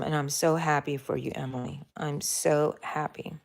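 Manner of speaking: soft and sincere; tender. Real, not acted. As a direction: say it gently to her. Tender words to a viewer.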